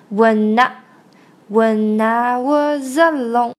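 WHEN I run together as when-na; linked sounds. Shown as a demonstration. Teacher shows linking of n and vowel, linked sounds. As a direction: say then sing WHEN I as when-na. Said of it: "成那".

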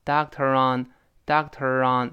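"doctor on" joined as dahk-te-ron; linked words. Shown as a demonstration. Teacher drills consonant linking, linked words. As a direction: carry the r of doctor into on. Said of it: "如果读快了就连到一块儿".

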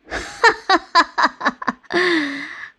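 big, high mocking laugh; exaggerated laugh. A narrator's reading. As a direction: laugh it up, hammed and scornful. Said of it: "吐司老爷夸张地笑着说".

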